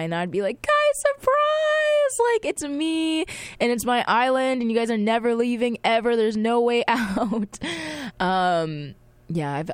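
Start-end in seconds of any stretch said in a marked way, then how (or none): 0.6-7.6 spring it on them like a playful villain; gleeful surprise. Pretend. Host playing herself greeting kidnapped friends on her island, hammed-up glee.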